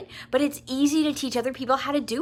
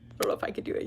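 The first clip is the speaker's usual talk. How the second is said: laughing mock doubt; 9 dB quieter, much faster than usual. Shown as a demonstration.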